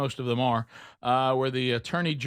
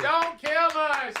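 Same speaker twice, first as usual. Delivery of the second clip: high, slow hammed-up plea; mock pleading; 13 semitones higher, much slower than usual. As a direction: beg in a fake panic. Pleading crowd parody.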